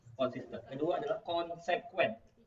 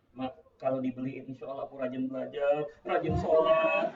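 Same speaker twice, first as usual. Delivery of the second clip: put-on pleading child; 4 dB louder than usual. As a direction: coax Mom, stretching the last words. Child's final plea for ice cream. (rayuan anak, ujungnya dipanjangkan)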